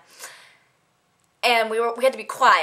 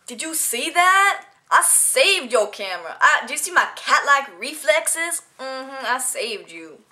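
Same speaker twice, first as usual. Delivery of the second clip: hammed-up proud showing off; mock boasting; 3 semitones higher, slower than usual. Crew member who caught the camera, mock boasting. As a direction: draw it out with exaggerated self-congratulation.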